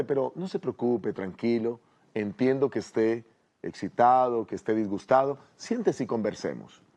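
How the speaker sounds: calm, slightly softened reply; soft reassuring tone. Acted. Answering someone who treats you badly, in a soft tone. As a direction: soothe someone who is upset, gently. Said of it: "responde con un tono suave".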